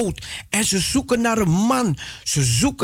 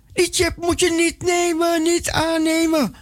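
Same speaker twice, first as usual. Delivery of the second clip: voice of scripture; 9 semitones higher than usual. Acted. Preacher voices the Bible's command.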